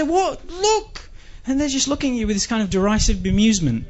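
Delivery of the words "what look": high incredulous demand; exasperated. Retold or imitated. To the flatmates, high incredulous demand. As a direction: demand they look, disbelieving. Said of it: "you go to the people and you say".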